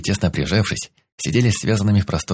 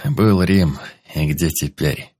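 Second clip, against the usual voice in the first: sarcastic; 2 semitones lower, slower than usual. Acted. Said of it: "язвительно улыбнулись".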